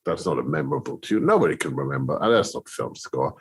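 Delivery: a lightly voiced doubtful director; imitating Terry, dismissive. Director Terry Malick brushing off Hans's new piece, mock dismissive. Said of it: "he's going".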